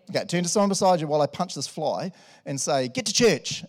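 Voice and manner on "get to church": friendly but firm; nice way. Pretend. Congregation members tell each other, in a nice friendly way. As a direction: say it kindly to your neighbour. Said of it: "in a nice way".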